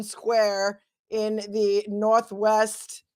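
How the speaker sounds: lightly voiced hostage video demand; mock ransom demand. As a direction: play a kidnapper reading a ransom note, drawn out. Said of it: "I want him to say".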